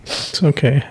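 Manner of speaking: very soft, soothing murmur; tender and hushed; gentle reassurance. Real, not acted. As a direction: quietly comfort someone in tears. Comforting a crying partner.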